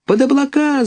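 excited chicks cheering; high gleeful gosling shout. A narrator's reading. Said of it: "закричали гусенята".

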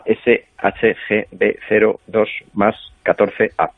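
slow, even robotic readout. Pretend. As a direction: spell the code out like a robot. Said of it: "voz de robot".

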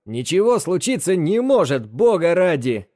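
резкий громкий окрик, выше тоном; рявкнуть раздражённо и громко; рявкнул. Acted. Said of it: "Бэрон рявкнул". (рявкнув)

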